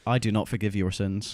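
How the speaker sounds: low, soft menacing verdict; a hint of dark Jesus; vigilante Jesus. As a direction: pronounce judgment like a grim avenger. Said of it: "Vigilante Jesus".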